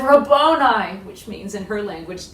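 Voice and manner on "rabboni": joyful cry. Acted. Mary greets Jesus.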